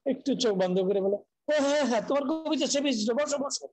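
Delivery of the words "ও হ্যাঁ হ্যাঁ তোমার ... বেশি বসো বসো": imitating a poet's sudden enthusiasm, pitched high; higher-pitched, excited "oh yes, sit down" manner; retold delighted recognition. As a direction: act out an effusive welcome, voice jumping up. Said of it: "উচ্ছ্বসিত হয়ে উঠলেন।".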